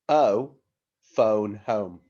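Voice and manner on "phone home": phone home, louder, stressed on phone; modelled phrase. Shown as a demonstration. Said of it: "Can you say that?".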